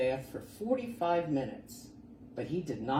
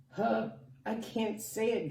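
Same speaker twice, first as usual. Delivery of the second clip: giggling; 8 semitones higher than usual. Acted. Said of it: "giggled the rhinoceros".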